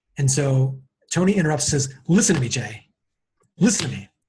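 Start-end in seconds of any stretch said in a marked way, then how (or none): 2.1-4.1 mock superior, commanding tone, lower. Retelling how Tony interrupted a rambling guest: imitating a superior tone. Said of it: "That is a superior".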